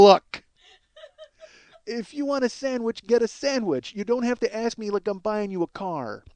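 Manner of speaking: mock impatient scolding; angry. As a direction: tell them off in frustration. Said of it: "my getting angry there".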